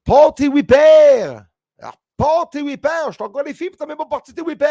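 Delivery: high, loud rural Quebec French shouting; incomprehensible Quebec French. Retold or imitated. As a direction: holler in a thick Quebec accent, pitched high. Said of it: "he was telling me".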